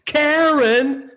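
high, drawn-out heckler's yell. Retold or imitated. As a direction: imitate a fan hollering a name across the room. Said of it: "somebody did yell out".

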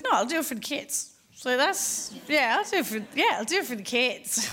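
playing along with a put-on brightness; a hint of a grudging teenager; reluctant teen. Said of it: "cynical, angsty teenager".

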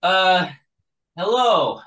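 lightly voiced gruff guard; a guard challenging visitors. GM voicing guard.

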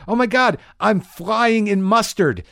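high, loud, slow wonder; dreamy awe. Retold or imitated. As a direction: drag it out in tripped-out awe. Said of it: "you're like".

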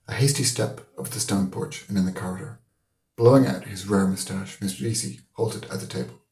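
measured literary reading aloud; story narration. A narrator's reading. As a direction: read the novel like a storyteller.

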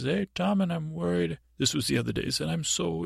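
mock crying boy. Worried prisoner boy pleading with Tom, mock crying. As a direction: play the boy fighting back tears. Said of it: "he was crying".

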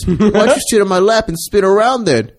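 put-on high, cheeky old woman voice.

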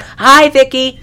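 sing-song imitation of a silly character; mock cheery greeting. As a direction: chirp the greeting, hamming it up. Retelling same movie line.

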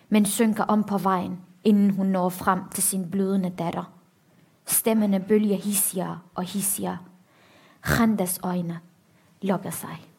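measured, grave book reading with long pauses; dramatic reading. A narrator's reading. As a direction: read the horror steadily, letting pauses land. Reads an excerpt from the novel.

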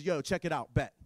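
lightly voiced laid-back street cool; a hint of a chill homie prophet; casual slang swagger, barely put on; street-talking Elijah. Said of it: "This is how Elijah talks in my world".

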